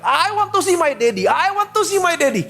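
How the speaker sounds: put-on girl crying out. Daughter calling from her room for her father, a high loud cry. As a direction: call out for daddy from the next room. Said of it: "anaknya berteriak".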